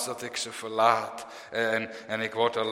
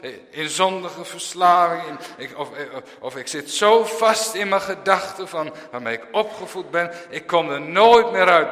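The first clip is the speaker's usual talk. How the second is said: imitating young people; 5 semitones higher, 6 dB louder than usual. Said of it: "jonge mensen die zeggen".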